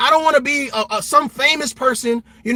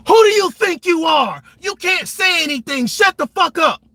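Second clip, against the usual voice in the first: mock shout, louder and higher; imitating a bully; 8 semitones higher, 4 dB louder than usual. Bullies at school shouting down a kid, mock yelling.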